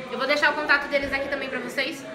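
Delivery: talking with mouth full. Real, not acted. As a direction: speak through a bite of food. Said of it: "Falando de boca cheia".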